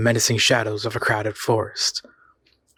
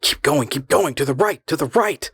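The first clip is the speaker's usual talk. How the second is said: impatient; 4 semitones higher than usual. A narrator's reading. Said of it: "its tone was impatient".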